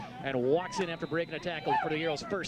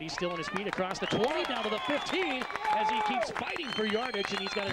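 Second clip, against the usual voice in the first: excited; 6 semitones higher than usual. Real, not acted. Play-by-play run excitement.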